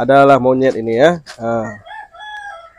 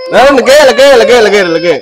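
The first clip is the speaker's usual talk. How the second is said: higher, louder sing-song coaxing voice; coaxing a toddler; 6 semitones higher, 4 dB louder than usual. Acted. Parent coaxing a crying child to repeat words, high sing-song coaxing. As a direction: coax the little one along, voice lifted.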